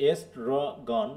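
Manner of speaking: এস্ট্রোগন broken as es-tro-gon; R joined on. Shown as a demonstration. Teacher explaining how র attaches, এস্ট্রোগন in careful syllables. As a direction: run the র into the T in এস্ট্রোগন. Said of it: "রটাকে ওর সাথে দিয়ে দিচ্ছে".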